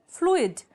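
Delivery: फ्लूइड in two beats, floo-id, falling pitch; separate vowels. Shown as a demonstration. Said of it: "separately pronounce किए जा रहे हैं". (फ्लूइड को फ्लू-इड, दोनों स्वर अलग बोलें)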